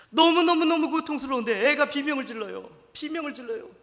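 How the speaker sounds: anguished preacher's outcry; loud anguished cry. Acted. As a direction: cry it out at full force. Preacher's climax about the scream.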